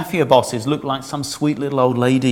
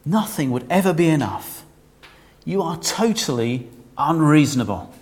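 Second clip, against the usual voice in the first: mock shouting; 3 semitones higher than usual. Israel shouting at God from the witness stand, mock shout. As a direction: shout it back at God in protest. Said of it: "hear Israel shouting at God from the witness stand".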